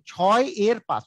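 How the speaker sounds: "ছয় এর পাঁচ" with এর set apart as its own word; demonstrated reading. Shown as a demonstration. Teacher shows students how the fraction is read, "ছয় এর পাঁচ" in separated words. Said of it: "ছয়ের পাঁচ বলতে হবে".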